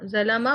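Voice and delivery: ज़लमा said with a clear open a at the end; teacher's corrective ज़लमा; corrected pronunciation. Shown as a demonstration. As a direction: model ज़लमा ending in a, not u. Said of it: "ज़लमु, उन्होंने किया।".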